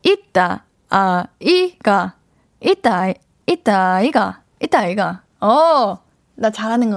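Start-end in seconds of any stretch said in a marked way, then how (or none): 0.0-5.2 Gyeongsang dialect retry. Shown as a demonstration. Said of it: "제대로 알려주세요".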